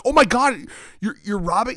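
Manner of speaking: very high, loud gasp of disbelief; mock shock. Bystander reacting to the robbery, mock shock. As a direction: act scandalized. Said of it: "he's just like".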